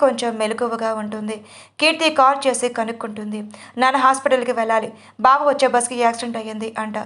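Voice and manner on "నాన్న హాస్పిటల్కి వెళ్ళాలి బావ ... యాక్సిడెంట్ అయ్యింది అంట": ordinary delivery, nothing marked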